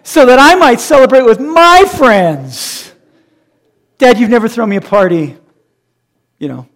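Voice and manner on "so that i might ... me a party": sob-story plea, hammed up; mock whining. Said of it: "with a straight face".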